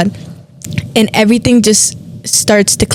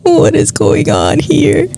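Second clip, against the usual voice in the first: slow, pitched up, wondering; amazed; 6 semitones higher, slower than usual. Retold or imitated. Reliving the moment the girl called her a princess, amazed. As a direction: let the amazement slow you down. Stunned by the coincidence.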